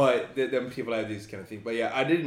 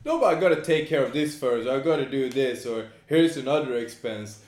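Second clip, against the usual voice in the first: mock excuses; 3 semitones higher, 6 dB louder than usual.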